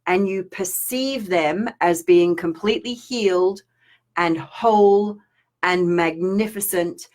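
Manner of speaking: slow, soothing guidance; gentle teaching. Shown as a demonstration. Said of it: "teaching the technique".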